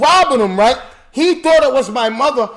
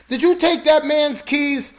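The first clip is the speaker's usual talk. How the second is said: imitating mother; 6 semitones higher, slower than usual. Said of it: "my mother saying to me".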